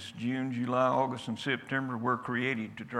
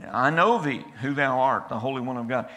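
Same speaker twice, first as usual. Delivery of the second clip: loud, raised demon cry; 7 dB louder than usual. Acted. Demon crying out through the man at Jesus, loud. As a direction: shout it as the demon inside the man. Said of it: "this demon cries out through the voice of a man".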